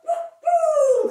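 high loud playful woofs; dog barking. Pretend. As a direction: bark like a happy dog. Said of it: "your next tail".

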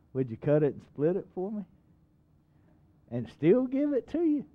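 rising in disbelief at the end; lightly voiced pushy caller; incredulous caller. Preacher imitating a firewood caller, mock incredulous.

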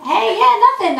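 put-on high, breezy teen Jesus. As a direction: play Jesus as a sweet high-voiced teenager. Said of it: "Jesus is like".

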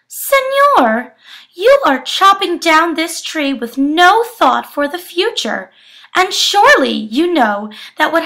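earnest anteater. Acted. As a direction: plead with the sleeping man. Anteater character speaks.

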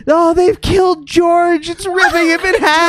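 high, loud spirit wail; ghostly panicked cry. Acted. Ghost mourning George to the party, high wailing cry. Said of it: "another one saying".

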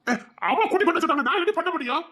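helpless protest. Acted. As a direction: throw up your hands, voice jumping up high.

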